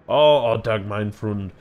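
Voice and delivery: big hearty man, booming opening then easing; lightly hammed-up mirth with a German touch; jovial Goldsmith figure. Goldsmith teases the insulting shopkeeper, hammed-up hearty mirth.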